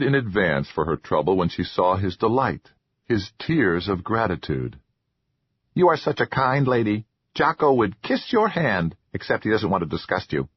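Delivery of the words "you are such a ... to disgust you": grateful troll, lightly voiced; eager little troll voice. Troll Jocko speaks.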